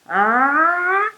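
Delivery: "Ah" tightened into the ayn; choked ah. Shown as a demonstration. Teacher reminding students of the choking drill, choked. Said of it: "making a ah sound and then choking".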